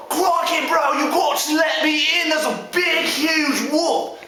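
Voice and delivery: excitable piggy in danger; panicked Aussie first pig. Acted. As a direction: beg to be let in. Pig pleads at brother's door.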